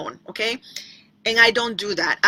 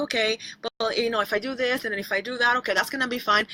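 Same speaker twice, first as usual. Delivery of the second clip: retold thinking aloud; 6 dB quieter, faster than usual. Retells reasoning with herself.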